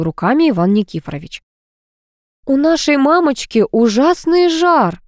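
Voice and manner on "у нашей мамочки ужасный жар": higher, slow alarmed shout. A narrator's reading. Kit shouting to everyone about mother's fever. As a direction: cry out the alarm. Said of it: "закричал Кит".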